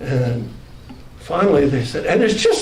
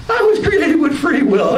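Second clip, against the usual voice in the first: high proclamation; 9 semitones higher, 4 dB louder than usual. Retold or imitated. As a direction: declare it much higher. Proclamation again.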